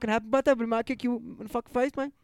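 put-on Australian accent, ramping up into a rant; hammed-up loud Australian accent; mock Aussie outburst. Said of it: "you're really being loud right now".

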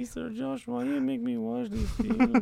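high put-on stereotypical Hispanic accent; mock Hispanic accent. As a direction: play a flustered maid with a thick Hispanic accent. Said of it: "Stereotypical Hispanic accent".

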